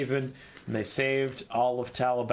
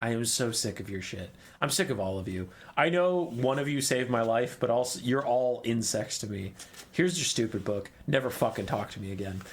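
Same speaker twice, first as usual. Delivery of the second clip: fed-up Teclis; 3 semitones lower than usual. Retold or imitated. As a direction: sigh it out like an elf sick of everyone. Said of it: "And Teclis is like".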